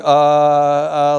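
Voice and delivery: loud, drawn-out "uh" of non-recognition; imitated baffled stammer. Lovins fails to place the stranger greeting him, baffled stalling. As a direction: act out stalling, trying to place someone. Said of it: "like this".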